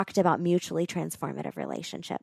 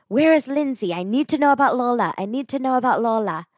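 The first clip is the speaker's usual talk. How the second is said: eager question; 5 semitones higher, 6 dB louder than usual. Retold or imitated. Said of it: "she says".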